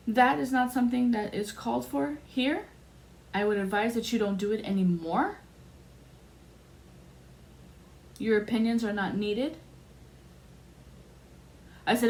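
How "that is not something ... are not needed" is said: imitated reprimand. Acting out superior's reprimand.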